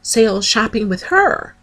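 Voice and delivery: squealing high with excitement; excited gushing. Retold or imitated. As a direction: gush about it like a thrilled fan. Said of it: "I was like".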